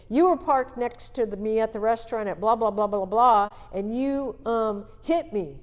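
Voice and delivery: letting him have it, livid; retold yelling. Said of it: "I'm yelling at him".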